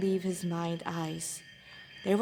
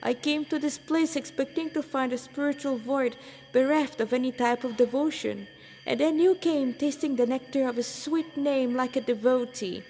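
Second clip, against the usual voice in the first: exuberant extolling; 3 semitones higher than usual. Acted. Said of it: "The exuberant stranger extolled".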